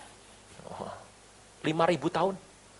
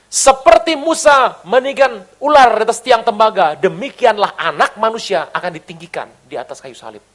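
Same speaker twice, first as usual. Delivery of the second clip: scripture quote; 4 semitones higher, 6 dB louder than usual. Acted. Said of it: "itu lambang siapa".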